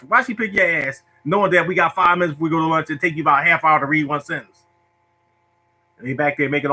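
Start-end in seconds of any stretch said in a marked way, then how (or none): 0.1-4.6 higher, pressing classmate voice; impatient kids. Retold or imitated. Classmates wanting lunch, threatening him to hurry up, higher and impatient. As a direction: hurry him along with an exasperated complaint. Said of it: "looking at me like".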